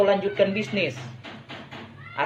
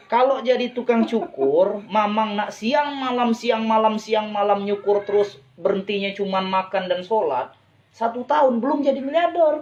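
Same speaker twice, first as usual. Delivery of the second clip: raised pitch, insistent retold lecture; emphatic warning; 3 semitones higher than usual. Retelling his advice to the barber, emphatic warning. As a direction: press the point home, pitched up.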